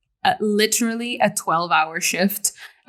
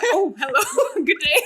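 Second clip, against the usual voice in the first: put-on British accent; 7 semitones higher than usual. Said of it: "all of these people are British".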